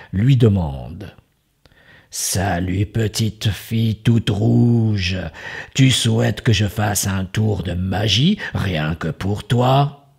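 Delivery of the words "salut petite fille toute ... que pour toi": a crafty wizard charming his guest; sly magician voice. Acted. Magician greets the girl.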